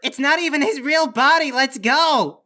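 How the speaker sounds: high, loud shout to flee; urgent yell. Acted. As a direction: yell to get everyone moving. Urging escape from creature.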